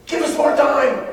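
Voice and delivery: high, loud, drawn-out mock plea; mocking whine. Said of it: "That's not how they talked".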